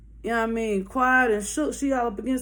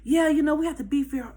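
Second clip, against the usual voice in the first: high, syrupy friendly; sweet white girl voice; 4 semitones higher than usual. Retold or imitated. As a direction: gush sisterhood sweetly. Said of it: "This the white girl now".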